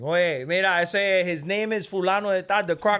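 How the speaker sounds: hammed-up Miami boss voice; mock boss. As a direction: bark it like a careless boss throwing him in. Mock Cuban boss sends him in.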